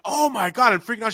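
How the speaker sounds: high, loud mock freak-out; excited retelling. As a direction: act out blurting it in amazement. Retelling excited sighting to wife.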